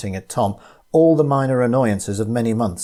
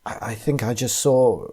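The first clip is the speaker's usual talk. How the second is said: halting, stunned half-sentence; shaken stammer. Acted. Tina stammering to Tom about what she saw, shaken. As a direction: stumble over the words in shock.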